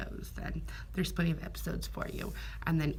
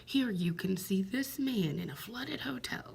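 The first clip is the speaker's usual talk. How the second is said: a little higher, lightly voiced teaser announcer; mock TV announcer; 4 semitones higher than usual. Mocking a weather show's repeated teaser, light announcer voice. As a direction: mimic a weather show hyping the next segment. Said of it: "And then it just repeats itself over and over".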